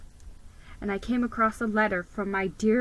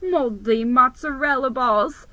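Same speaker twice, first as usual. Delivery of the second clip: much higher, louder panicked cry; panicked exclamation; 4 semitones higher, 6 dB louder than usual. Acted.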